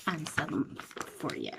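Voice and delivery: ordinary delivery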